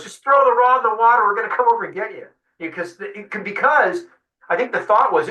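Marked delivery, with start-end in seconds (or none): 0.0-2.3 high, louder urgent call across the water; urgent yell. Retold or imitated. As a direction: shout it from the boat, then rush. So Decker goes.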